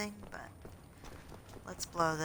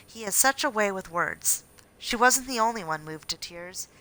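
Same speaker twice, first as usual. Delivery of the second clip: newspaper article read aloud, a bit punchier and louder; news read; 2 semitones higher, 5 dB louder than usual. A narrator's reading. Gamer reads a report on the bridge inauguration, news-read style.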